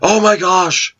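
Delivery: put-on high-pitched squealing kid sister, laughing; sister's delighted squeal. Big brother retelling his sister's squeal, high and laughing. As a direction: squeal it like a thrilled little sister. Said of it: "And she would scream".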